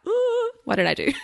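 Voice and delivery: high squeaky voice of sudden panic; panicked self-doubt. Retold or imitated. Self-employed owner doubting her choices, high squeaky panic. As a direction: squeal it like you just realised a mistake. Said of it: "you're like".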